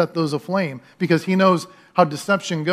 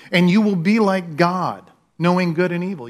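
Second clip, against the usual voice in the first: rich, syrupy serpent; 3 semitones higher, 4 dB louder than usual. Retold or imitated. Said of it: "he's so rich and syrupy".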